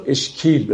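اشکیل with a long drawn "e", like eshkēl; majhul ye. Shown as a demonstration. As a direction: stretch the vowel of اشکیل as a long kasre. (اشکیل با کسرهٔ کشیده)

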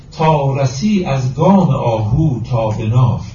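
slow, measured verse reading; deliberate, metrical Persian verse delivery; poetry recitation. Acted. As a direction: recite the couplet with drawn-out syllables.

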